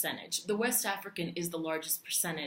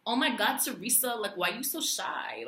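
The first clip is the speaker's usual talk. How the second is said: put-on Long Island accent; 3 semitones higher than usual. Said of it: "I just can't do a Long Island accent".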